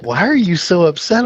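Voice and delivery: a lightly voiced calm sponsor; sponsor's puzzled voice.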